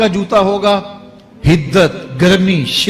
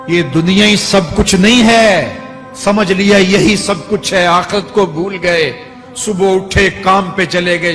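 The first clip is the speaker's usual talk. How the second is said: raised, higher-pitched preaching rebuke; forceful rebuke; 5 semitones higher than usual. Acted. Preacher rebuking those who forgot the hereafter, forceful. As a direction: press the reproach home, voice lifted.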